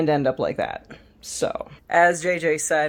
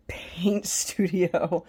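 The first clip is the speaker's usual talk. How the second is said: whisper; 2 semitones higher, much slower than usual. Real, not acted. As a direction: breathe the word out, barely voiced. Whispered correction of word.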